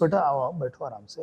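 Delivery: a hint of a kind elderly actor; kindly elder. Celebrity greets nervous newcomer.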